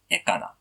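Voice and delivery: "Ekana" stressed on the opening E; antepenultimate stress. Shown as a demonstration. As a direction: put the weight on the first syllable of "Ekana". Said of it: "you have to stress the verb".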